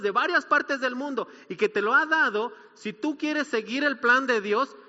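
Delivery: rising to a loud, slow, earnest plea; fervent plea. Retold or imitated. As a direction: build it like a pastor pleading with a friend to change course. Pleading with friend, preacher retelling.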